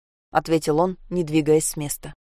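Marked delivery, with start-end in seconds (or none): none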